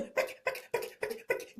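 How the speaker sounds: breathy, near-silent "pick, pick"; whispered mimicry. Mocking the pastor's tiny voice, in a whisper. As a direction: whisper the little sounds under your breath. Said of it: "Justice Suleman go there".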